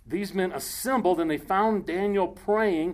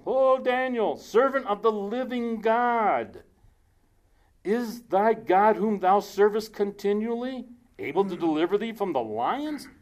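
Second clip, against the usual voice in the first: lamenting king; 4 semitones higher than usual. Acted. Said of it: "he cried with a lamentable voice".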